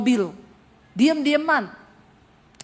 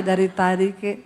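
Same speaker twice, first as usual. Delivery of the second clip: deadpan Solo husband; 4 semitones lower than usual. Retold or imitated. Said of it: "Orang Solo tanpa ekspresi".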